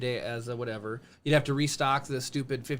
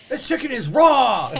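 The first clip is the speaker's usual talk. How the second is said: loud, high, slow shouted chef rant; Gordon Ramsay; 10 semitones higher, 10 dB louder, slower than usual. Retold or imitated. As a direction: bellow it like an angry TV chef. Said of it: "what would Gordon Ramsay say".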